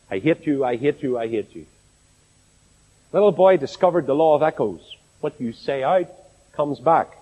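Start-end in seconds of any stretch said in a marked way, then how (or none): 0.1-1.7 each repeat softer, dying away; fading echo. Retold or imitated. Mountain echo throwing the boy's words back, fading. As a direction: let the echo fade out with every repeat. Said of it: "the echo came rocketing back".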